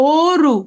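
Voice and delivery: অরু with a rounded close "o" at the start; অরু begun on a held, closed "o"; close vowel. Shown as a demonstration. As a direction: narrow the lips on the first vowel of অরু. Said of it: "এটা হচ্ছে সংবৃত".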